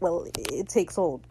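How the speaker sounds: halting, falling, anticlimactic finish; deflated. Retold or imitated. Izzy after the music cuts, deflated and halting. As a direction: stumble back into it, the drama gone. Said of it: "then the music cuts".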